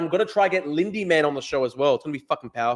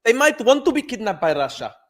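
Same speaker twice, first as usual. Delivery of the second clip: higher, sneering mock echo; mocking repeat; 7 semitones higher than usual. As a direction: parrot the guest's claim in disbelief. Mocking the guest's claim.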